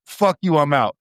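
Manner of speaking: imitated defiant exit line; movie quitting scene. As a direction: act out storming off the job, playfully. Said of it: "where the dude quits his".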